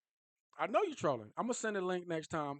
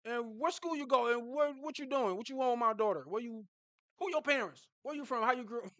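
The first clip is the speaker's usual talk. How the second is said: lightly voiced stern father grilling a boy; a hint of an overprotective father; protective dad; 5 semitones higher than usual. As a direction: question him like a wary dad. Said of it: "you like".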